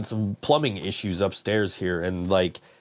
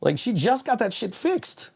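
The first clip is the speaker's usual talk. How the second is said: exasperated; 10 semitones higher than usual. Real, not acted. Exasperated about the leak.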